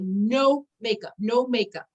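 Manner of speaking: slow, firm mock mom's no; retold firm refusal. Mom answering her daughter's makeup request, firm slow refusal. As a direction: lay down the rule, stretched out.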